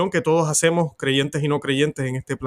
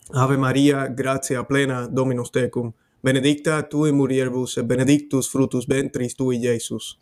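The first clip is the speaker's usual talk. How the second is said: steady, reverent prayer in Latin; Latin prayer recitation. Acted. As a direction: recite the Hail Mary as in church. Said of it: "vamos a hacer el Ave María en latín". (rezo solemne en latín)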